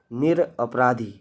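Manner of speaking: निरपराधी spelt out slowly, each syllable drawn long. Shown as a demonstration. Teacher shows how to write it, says निरपराधी very slowly. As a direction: sound out निरपराधी slowly, piece by piece. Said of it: "पहले नील लिखेंगे आप, उसके बाद अपराधी".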